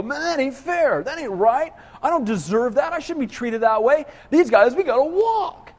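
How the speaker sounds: complaining. Acted. People griping about unfair treatment, mock complaining. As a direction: grumble like you feel unfairly treated. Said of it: "as we complain about things".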